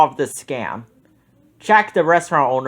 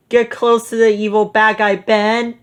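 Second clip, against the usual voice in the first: Shaggy voice; 6 semitones higher than usual. A narrator's reading. Shaggy talks to Scooby about the villain, high goofy voice. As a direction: say it like a nervous cartoon slacker.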